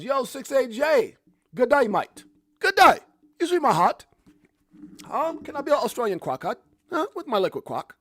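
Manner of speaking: loud, high, hammed-up Australian accent. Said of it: "is that an Australian accent?".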